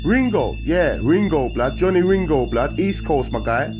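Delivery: very high, loud greeting; calling out. Acted. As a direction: yell across the wing. Calling out window.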